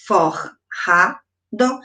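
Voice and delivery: "forrado" very slowly broken as for... ra... do; long pause between each syllable of "forrado"; split into syllables. Shown as a demonstration. Teacher demonstrates syllable separation.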